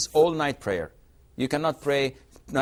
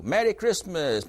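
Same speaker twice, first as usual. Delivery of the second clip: the greeting, pitched higher, lightly acted; a neighbor greets a Muslim: light higher voice; voicing a neighbor's greeting; 5 semitones higher than usual. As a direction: call out the greeting a touch higher. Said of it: "we don't say it back".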